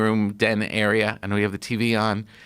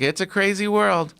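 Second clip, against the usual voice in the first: imitating Nana; 11 semitones higher than usual. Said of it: "She's like".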